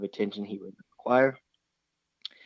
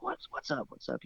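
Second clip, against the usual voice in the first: soft, higher hushed greeting; half-whispered, higher and quieter; retold hushed whisper; 4 semitones higher, 9 dB quieter than usual. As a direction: imitate a buddy keeping his voice down. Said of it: "he was kinda whispering".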